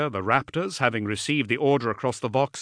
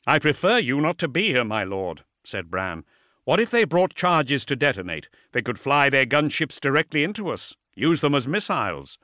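lightly voiced concerned officer, a little higher; wary commander; 3 semitones higher than usual. Officer warns his lord of a possible attack, wary. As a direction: voice a subordinate urging caution, slightly raised pitch.

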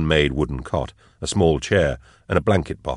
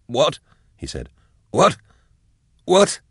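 dazed call; 9 semitones higher than usual. Acted. Drusha dazed, not hearing Nayl.

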